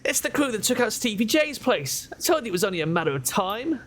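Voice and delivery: high, fast panicked squeak. Acted. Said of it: "The shotgun-wielding thug squeaks in panic".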